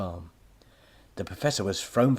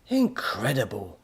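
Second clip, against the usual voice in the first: gasping; 3 semitones higher, 3 dB louder, slower than usual. Acted. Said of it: "his granddad gasped".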